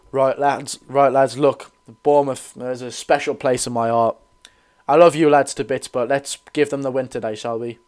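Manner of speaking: lightly put-on coach voice, barely different from his own; Eddie Howe impression. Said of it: "Worst Eddie Howe impression ever".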